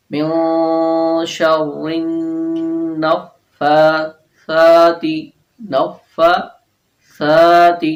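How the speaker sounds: slow Quranic recitation, ث in النفاثات said soft with tongue tip on front teeth; slow tajweed chant stressing the soft ث of نفاثات; soft tha recitation. Shown as a demonstration. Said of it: "یہ سا نرمی سے ادا ہوگا".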